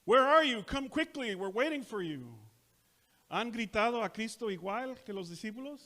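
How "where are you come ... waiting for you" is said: loud anguished cry to Christ; calling out. Acted. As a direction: call out desperately. Sermon opens calling out to Christ.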